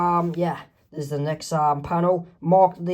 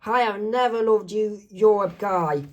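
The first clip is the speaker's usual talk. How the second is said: mild acted shock, pitched up; raised, startled cartoon voice; shocked yell; 4 semitones higher than usual. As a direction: react with mock outrage. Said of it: "is shocked and yells".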